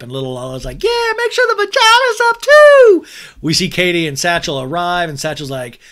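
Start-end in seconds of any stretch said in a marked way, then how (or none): 0.8-3.0 put-on very high, loud, strained baby squeal; baby Lala squeak. Recapping the show, voicing baby Lala in a shrill squeal. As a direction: shriek it like a tiny toddler.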